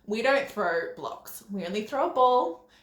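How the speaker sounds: put-on slow, patient correction to a toddler; calm. Shown as a demonstration. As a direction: kneel down and explain it calmly. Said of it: "and really calmly".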